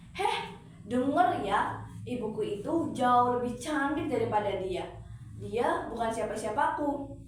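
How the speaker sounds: disown her coldly and proudly; scornful denial. Acted. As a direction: daughter denying her own mother to young men. Daughter disowns her mother.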